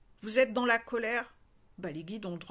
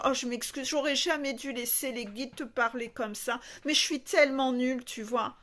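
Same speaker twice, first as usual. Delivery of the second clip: slightly raised, hammed-up apology; mock self-blame; 3 semitones higher than usual. Coach acting out apologising to a client for the guides, mock self-blame. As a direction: grovel in an exaggerated, self-belittling act. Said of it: "est-ce que je vais aller justement dans cette énergie de cette carte à dire".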